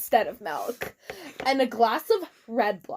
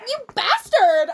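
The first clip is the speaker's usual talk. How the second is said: loud, slow furious yell, pitched up; angry shout; 9 semitones higher, 9 dB louder, slower than usual. Retold or imitated. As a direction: hurl the insult in a rage. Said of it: "I shouted angrily".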